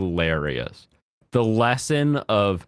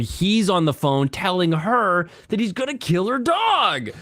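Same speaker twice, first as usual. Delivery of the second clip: high giggly voice; 10 semitones higher than usual. Real, not acted. Absurd joke, high voice.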